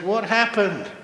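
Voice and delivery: loud, high-pitched astonished demand; hammed-up shock at a disaster; alarmed exclamation. Head keeper to the meditator after the escape, loudly aghast.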